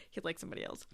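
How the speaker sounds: whispering the words to herself; whispered. Real, not acted. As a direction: whisper it like a quiet aside. Repeats the line under her breath.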